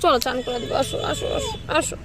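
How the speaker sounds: mother softly coaxing her sulking son to come for a bath. Real, not acted. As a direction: gently coax him to come.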